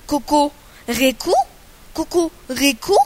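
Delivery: loud, rising mocking repeat of Kukuryku; mocking cuckoo. Cuckoo mocking the rooster's crow with a loud sneer. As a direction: throw Kukuryku back at him as a scornful question. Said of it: "wrzaśnie".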